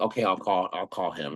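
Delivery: sassy, grudging, reluctant tone with attitude. Retelling agreeing to call dad: retelling own reply with attitude. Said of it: "with attitude".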